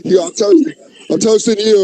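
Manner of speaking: high-pitched pretend toast; mock insistent toast. Toasting a father in hospice, mock insistent.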